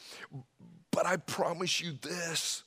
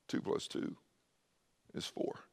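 soft, near-whispered; lowered tone; 11 dB quieter than usual. Shown as a demonstration. Preacher showing truth needn't be yelled, soft and quiet. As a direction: say it gently, barely voiced. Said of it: "You can actually lower the tone".

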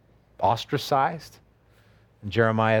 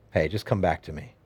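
low, gentle appeal in God's voice; 8 semitones lower, 3 dB quieter than usual. Acted. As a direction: draw them back tenderly, pitched low. God gently calls Jeremiah back.

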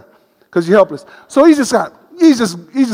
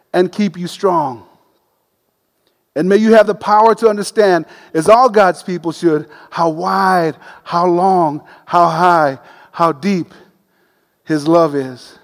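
scripture prayer reading; 2 semitones lower than usual. Acted. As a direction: read it as a blessing over them.

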